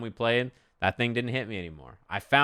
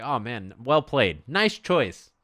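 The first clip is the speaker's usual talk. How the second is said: impersonated gracious player. Retold or imitated. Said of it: "Super Noon was like".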